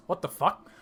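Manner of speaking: first double-take, still held in; startled disbelief. Acted. Colm reacts to the echo.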